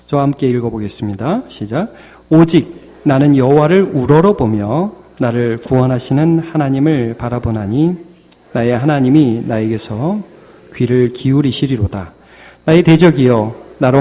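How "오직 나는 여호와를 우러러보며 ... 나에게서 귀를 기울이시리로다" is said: scripture reading. Real, not acted. Preacher reading Micah with congregation, measured recitation. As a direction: lead the congregation through the verse.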